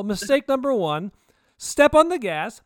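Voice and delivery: loud, high, slow shouted command; urgent yell. Retold or imitated. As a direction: yell "Step on the gas" drawn out. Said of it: "I was like".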